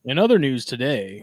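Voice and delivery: formal broadcast opener; news anchor voice. Shown as a demonstration. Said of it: "put on my best, uh, news anchor voice".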